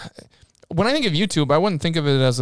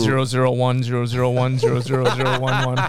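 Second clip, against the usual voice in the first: robot saying binary. Pretend. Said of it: "You're so binary".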